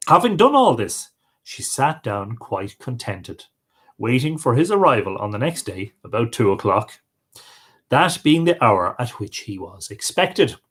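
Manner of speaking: expressive storyteller with rising and falling pitch; folk tale narration. Acted. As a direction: read an old tale aloud, lively dialogue included. Reads a folk tale aloud.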